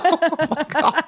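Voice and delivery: high, slow oh my God; drawn out in disbelief; exasperated. Real, not acted.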